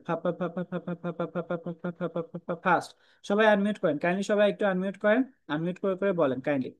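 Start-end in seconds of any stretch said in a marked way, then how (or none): 0.0-2.9 ফা ফা then ফাস্ট, breathy p; aspirated drill. Shown as a demonstration. Teacher leading the class in the drill. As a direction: repeat ফা, finish on ফাস্ট. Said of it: "এটা একটু জোরে জোরে সবাই পড়েন".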